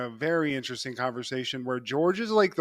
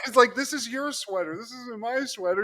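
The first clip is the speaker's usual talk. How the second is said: put-on high, loud angry girlfriend; angry shout; 7 semitones higher, 4 dB louder than usual. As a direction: snap at him, fed up. Elaine snapping, high voice.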